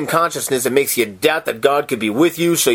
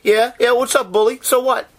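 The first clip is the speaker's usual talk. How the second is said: 1 cocky taunt; 7 semitones higher than usual. Retold or imitated. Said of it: "be like".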